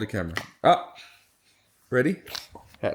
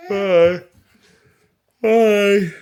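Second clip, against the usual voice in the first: cheery bye; 7 semitones higher, 8 dB louder than usual. Real, not acted. Singsong goodbye to viewers.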